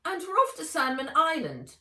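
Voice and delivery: put-on high, loud, eager girl; girl seizing her excuse; eager blurt. A narrator's reading. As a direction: rush it out in relief.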